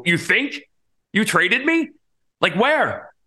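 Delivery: he has just heard he is traded, stunned and high; stunned disbelief. Retold or imitated. Player quizzing the pitching coach about his trade, stunned and high-pitched.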